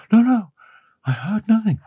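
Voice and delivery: put-on high, urgent, scared young woman; frightened denial. A narrator's reading. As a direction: deny it fast in fear.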